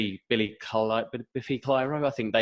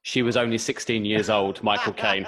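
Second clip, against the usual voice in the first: Michael Caine impression. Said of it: "deepen, deepen".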